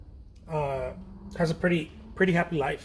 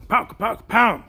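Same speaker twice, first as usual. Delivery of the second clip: mock gunshots; 4 semitones higher, 5 dB louder, much slower than usual. Hyped vlogger sound effects.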